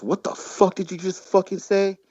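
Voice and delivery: imitating a furious stranger; mock angry challenge. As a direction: play the offended guy squaring up. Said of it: "one of the dudes goes".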